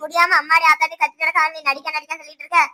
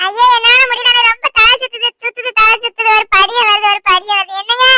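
higher, loud wailing pretend dizziness with a sob; faking a faint; 6 semitones higher, 7 dB louder than usual. Wife stages a collapse so the quarrel stops, wailing. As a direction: overplay the collapse, moaning and half crying. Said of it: "அவன் ஒரு நாடகத்தை போட்டுட்டான்".

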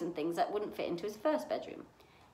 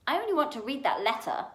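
loud, higher-pitched demand; said loudly; 6 semitones higher, 5 dB louder than usual. A narrator's reading. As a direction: insist loudly on reading it. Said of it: "he said loudly".

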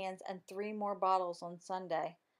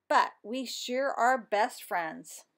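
warm closing; 3 semitones higher, 6 dB louder, slower than usual. Acted. Story's warm closing line.

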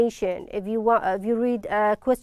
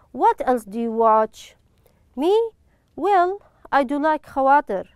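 brighter, livelier reading of both parts of the dialogue; dialogue read aloud. Shown as a demonstration. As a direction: read the model dialogue as two friends chatting. Teacher reads both dialogue parts.

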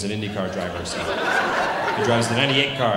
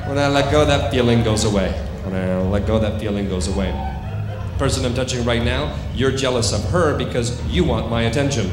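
firm, projected suggestion to a subject; stage hypnotist commands; 7 dB louder than usual. Acted. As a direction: deliver it as a hypnotist's command to the room.

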